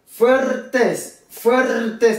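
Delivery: "fuertes" with a long trilled R, pitched high; rolled R. Shown as a demonstration. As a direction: roll the R in "fuertes" like a double R. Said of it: "prononcé comme deuxième". (« fuertes » avec un R bien roulé)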